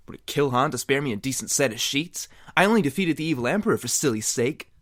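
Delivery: Luke's grumbling thought. Acted. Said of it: "Luke thought".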